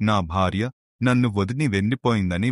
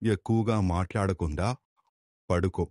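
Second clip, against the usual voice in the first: soft, calm soothing words; gentle reassurance; 6 dB quieter than usual. Acted. Swami telling the rescued woman to rest, soft and reassuring. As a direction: quietly comfort her to rest.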